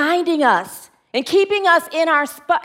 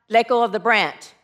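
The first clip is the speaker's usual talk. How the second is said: lightly voiced God, lower and calm; booming voice; 5 semitones lower than usual. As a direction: ask gently from above. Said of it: "It's a booming voice".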